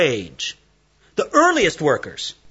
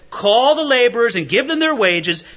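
master's command; 4 semitones higher than usual. Retold or imitated. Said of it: "the master said".

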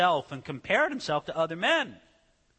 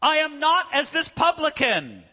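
higher, louder smug declaration; haughty Pharisee boast; 9 semitones higher, 4 dB louder than usual. Acted. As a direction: look down on the publican. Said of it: "putting words into the mouth of the Pharisee".

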